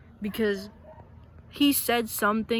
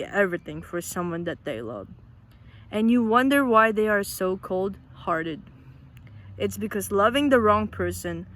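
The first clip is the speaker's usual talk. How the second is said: louder, earnest reading of a printed quote; reading a quote aloud; 4 dB louder than usual. Acted. Vlogger reading Cam Thompson's post to Filipino friends, earnest and louder. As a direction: read it out like a heartfelt message to the viewers.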